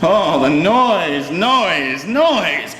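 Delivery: ordinary delivery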